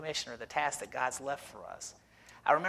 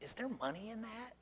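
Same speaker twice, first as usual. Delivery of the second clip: incredulous lady; 7 semitones higher, 14 dB quieter than usual. Retold or imitated. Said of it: "she goes".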